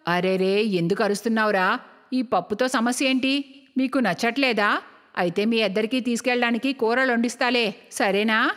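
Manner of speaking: low-pitched elder woman figure; placating mother. Acted. Mother placates her son. (తగ్గు స్వరంలో కొడుకుని సముదాయించే తల్లి)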